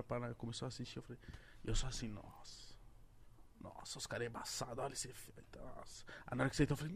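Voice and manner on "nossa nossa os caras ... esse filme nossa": very soft, almost whispered amazement; hushed awe. Retold or imitated. Reacting to the live, retold.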